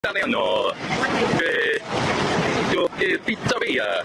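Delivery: fake Italian. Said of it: "now he's speaking fake Italian".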